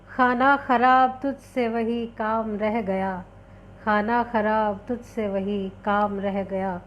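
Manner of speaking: measured Urdu couplet recital; poem recitation. Acted. Host opening a poetry session with a couplet, recited. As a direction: recite the verse with deliberate, drawn-out phrasing.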